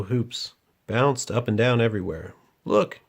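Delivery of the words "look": put-on high, eager little boy's cry; bright high childlike shout; excited exclaim. A narrator's reading. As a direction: call out in delight. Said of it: "exclaimed a boy".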